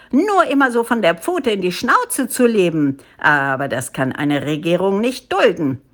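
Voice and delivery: lightly voiced indignant monkey ruler; pompous official telling off his subjects; scolding head ape. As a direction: lay down the law, self-importantly.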